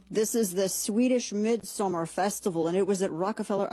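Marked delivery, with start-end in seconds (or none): 3.1-3.7 accidental hint of Irish on "Rockefeller"; Irish accent. Real, not acted. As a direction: let "Rockefeller" slip slightly into an Irish lilt. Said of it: "I don't know why I sounded Irish".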